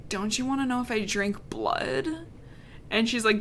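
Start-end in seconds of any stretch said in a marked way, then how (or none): 0.1-2.1 softer, lightly teasing seduction; mock sexy. Vampire coyly asking her about blood, mock sexy. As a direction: put on a mild sultry question. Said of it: "then he goes, sexily".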